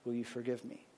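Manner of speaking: quiet, earnest confession to a wife; sincere apology. Shown as a demonstration. Husband confessing to his wife, quiet and sincere. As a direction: soften into a humble request for forgiveness. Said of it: "So we use Scripture. We say".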